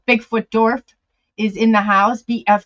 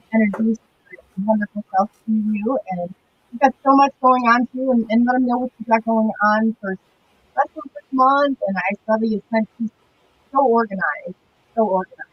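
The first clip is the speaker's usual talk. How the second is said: hollow echo, like speaking from a tunnel. Real, not acted. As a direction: voice bouncing round a tunnel. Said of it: "you sound like you're in a tunnel now".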